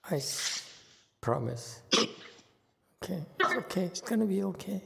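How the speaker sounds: soft, high comforting voice; calm a tearful student gently; tender hushed reassurance; soothing. Real, not acted. Master comforting crying student.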